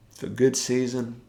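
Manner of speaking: yawning through the words. Real, not acted. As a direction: say it mid-yawn, sleepy. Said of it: "You know, I'm yawning".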